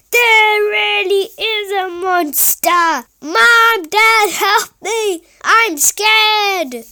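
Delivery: high, loud, tearful cry for help; frightened crying out. Acted. Scared boy crying out to his parents. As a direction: call for mum and dad in real fear.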